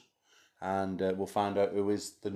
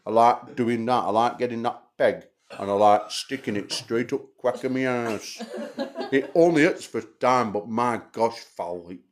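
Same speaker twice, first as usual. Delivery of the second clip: imitating a Yorkshire accent; slow, heavy Yorkshire accent; 2 semitones higher, 3 dB louder than usual. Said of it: "Sounds exactly like that".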